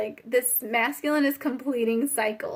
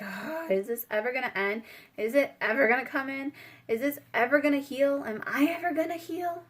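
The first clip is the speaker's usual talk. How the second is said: mock exasperation, rising as the questions pile up; exasperated; 3 semitones higher than usual. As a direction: act fed up, pitch climbing to the last question. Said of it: "you're just exasperated".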